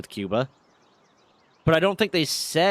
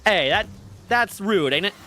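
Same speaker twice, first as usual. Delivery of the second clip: higher-pitched, badly faked British accent; 6 semitones higher than usual. Streamer playfully objecting to a jab, bad British accent. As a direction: have a clumsy go at sounding British. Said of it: "I can't do a British accent".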